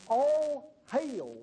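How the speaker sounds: high, drawn-out proclamation; formal biblical greeting. Acted. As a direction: proclaim an old-fashioned hail. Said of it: "and he said".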